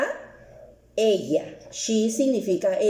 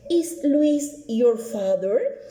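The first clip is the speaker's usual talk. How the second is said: slow repeat; much slower than usual. Shown as a demonstration. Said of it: "coloco is".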